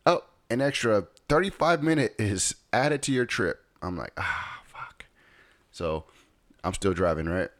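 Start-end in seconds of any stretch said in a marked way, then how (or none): 0.1-3.6 higher-pitched imitation of a GPS alert; GPS announcement. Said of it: "it says". 4.2-5.1 breathy, deflated whisper; whispered dismay. Acted. Reacting to added delay.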